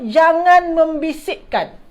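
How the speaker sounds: slow, deliberate, each word set out; slow teacher's model reading; slow clear translation. Shown as a demonstration. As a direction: say it slowly for the class. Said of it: "maknanya apa?".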